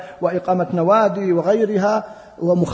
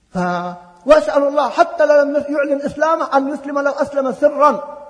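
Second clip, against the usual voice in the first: ordinary talk, nothing marked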